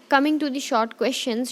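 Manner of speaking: slow, drawn-out announcement of the next topic; slow teacher heading. Shown as a demonstration. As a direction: spell out the heading slowly.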